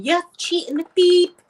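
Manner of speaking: hollering at the cheating man, retold; retold angry shout. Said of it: "over the balcony and shouting".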